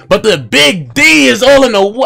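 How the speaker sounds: high, loud, over-the-top excitement; carried-away yell. Real, not acted. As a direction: get swept up in the joke. Suggestive joke gets carried away.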